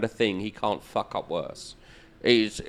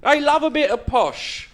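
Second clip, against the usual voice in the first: laughing through it, higher; 13 semitones higher than usual. Real, not acted. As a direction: chuckle the punchline out. Laughing at own joke.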